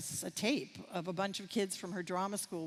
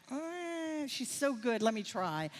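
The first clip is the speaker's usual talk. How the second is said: high, pleading with excitement; insisting, won over by talent; eager plea; 5 semitones higher, slower than usual. Retold or imitated. Retelling her plea to teacher.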